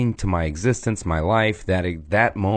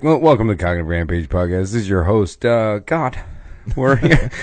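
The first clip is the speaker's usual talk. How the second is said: mock podcast host God. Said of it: "Be like".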